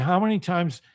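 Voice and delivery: low-pitched, controlled questioning; calm. Retold or imitated. Reminding a friend of thirty-five years of warnings, calmly. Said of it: "very calmly said".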